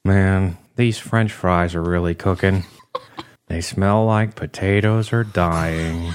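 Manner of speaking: slow, lightly voiced sad office dweeb; a lightly voiced sad sack from Jersey; sad dumpy Ferb McDuff. Ferb McDuff mopes about French fries in a sad voice. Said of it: "say as Ferb McDuff".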